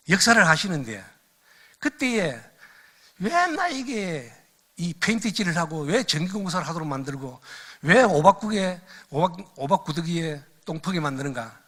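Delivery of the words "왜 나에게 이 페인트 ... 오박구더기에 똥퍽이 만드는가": retold complaint. Preacher recalling his complaints to God as a student, mildly exasperated grumble. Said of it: "하나님 앞에 불평도 했어요".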